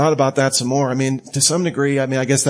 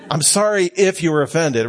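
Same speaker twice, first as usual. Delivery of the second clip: fake apology. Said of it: "the problem is not with me".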